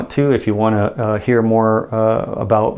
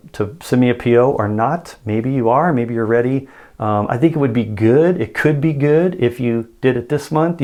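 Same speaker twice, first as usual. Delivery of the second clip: hesitant, beating around the bush; hedging, indirect ask. Shown as a demonstration. Salesman to an indirect-listening client, hesitant hedging hint. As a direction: trail off, never quite ask. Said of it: "you would say it like this".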